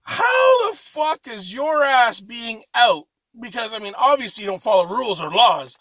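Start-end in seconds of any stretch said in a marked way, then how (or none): 0.0-3.0 high, loud disbelieving outburst, slowing on the last line; outraged retort. Retold or imitated. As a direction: fire back in mock outrage at the inmates. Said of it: "I'm like".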